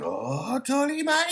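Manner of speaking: high, shouted anime hero cry; squealing Japanese-dub Luffy yell; Luffy's anime cry. Retold or imitated. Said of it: "he goes like".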